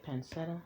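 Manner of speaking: "Pancetta" said pan-SET-a, with an s; soft-c pronunciation. Shown as a demonstration. Cook unsure how to say the ingredient, trying "Pancetta" with an s. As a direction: say "Pancetta" with an s sound, questioning. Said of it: "how do you say it?".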